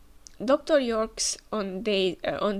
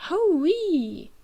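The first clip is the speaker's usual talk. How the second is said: loud, high Southern cowboy whoop; cowboy accent whoop; 8 semitones higher, 6 dB louder than usual. Acted. Voicing the manga inventor, Southern cowboy accent whoop. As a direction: holler it like a hillbilly prospector in a Southern accent. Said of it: "this accent thing is just".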